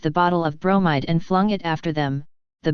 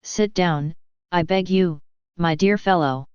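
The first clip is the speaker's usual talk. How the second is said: affectionate. Acted. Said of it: "affectionately addressing Andrei Yefimych".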